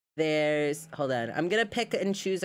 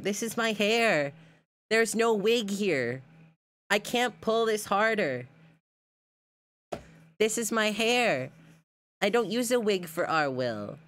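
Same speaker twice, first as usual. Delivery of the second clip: higher-pitched, insistent denial; emphatic protest; 4 semitones higher than usual. Real, not acted. Insisting hair is not a wig.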